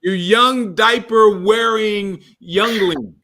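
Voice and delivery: put-on cranky old codger voice; creaky old timer scolding; old prospector. Mock old man scolding.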